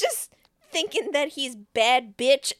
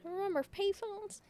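mock old-timer; 9 semitones higher, 7 dB quieter than usual. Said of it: "I'm surprised you haven't said".

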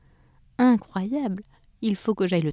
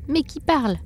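question effrayée; 7 semitones higher than usual. A narrator's reading. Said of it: "s'écria Cheryl".

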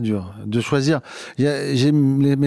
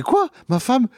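higher disbelieving questions; mock shocked; 10 semitones higher, slower than usual. Nord father hearing wife is goat, mock shocked. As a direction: squeal it in disbelief.

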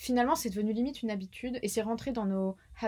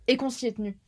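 whispering; faster than usual. Real, not acted. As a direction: whisper it like a secret. Whispered aside.

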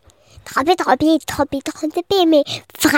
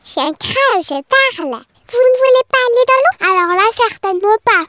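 talking crab voice; 5 semitones higher, 3 dB louder, faster than usual. Acted.

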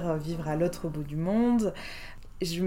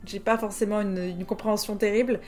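amused dismay; 3 semitones higher, 6 dB louder than usual. Retold or imitated. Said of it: "Je me suis dit".

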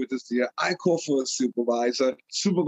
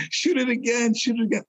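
urgent; 8 semitones higher than usual. Retold or imitated. Panicked order to fire again.

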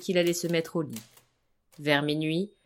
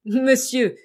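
solemn, louder and higher address; grave; 7 semitones higher, 9 dB louder than usual. Acted. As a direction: say it with heavy gravity. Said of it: "reprit Pierre avec beaucoup de gravité".

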